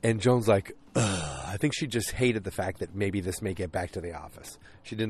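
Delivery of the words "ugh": low groan of distaste; reluctant, displeased grunt; disgusted ugh. Retold or imitated. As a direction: let out a mock "ugh". Acted disgusted reaction to seeing him.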